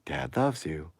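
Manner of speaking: lightly voiced robotic father; a hint of a friendly robot; gently robotic delivery; Dad character. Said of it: "person named Dad saying".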